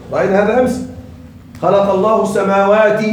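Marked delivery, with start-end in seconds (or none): 1.6-3.1 السماوات ending in a short i, "-aati"; kasra case ending. Shown as a demonstration. Teacher reciting an example of kasra for nasb, السماوات ending in "-i". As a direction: sound the final kasra on السماوات. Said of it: "منصوب بالكسر".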